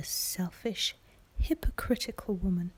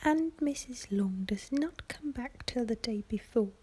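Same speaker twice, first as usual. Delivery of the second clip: a touch of a fretful mother, pitched up in a whisper; whispered complaining mother; 6 semitones higher than usual. Acted. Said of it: "cried her mother".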